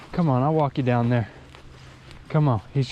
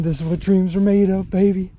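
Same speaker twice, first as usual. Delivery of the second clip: excited; 5 semitones higher, faster than usual. Real, not acted.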